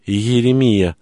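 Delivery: gasping out a name in shock; startled cry. Acted. Girl cries out name.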